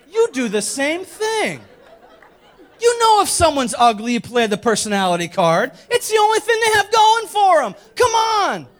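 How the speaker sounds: high, loud comic outburst; mock indignant scolding. Preacher teasing the women for doing the same, mock-indignant shouting. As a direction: call them out, voice shooting up in protest.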